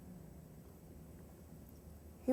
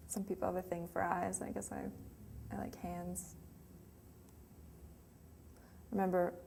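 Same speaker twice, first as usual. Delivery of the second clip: soft, wistful recollection of a lost love; tender reminiscence; 8 dB quieter than usual. Acted. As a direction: let the voice drop, lingering on each memory. Grieving monologue, remembering intimate nights together.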